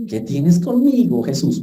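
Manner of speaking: lightly voiced demon, high and slow. Preacher imitating the demon confronting Jesus, mock demon voice. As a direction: attempt a demon's drawn-out, high-pitched challenge. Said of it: "tratar de hacer la voz del demonio".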